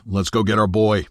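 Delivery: pushed out through clenched teeth; gritted teeth. Acted. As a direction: jaw tight, words bitten off. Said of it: "Through gritted teeth".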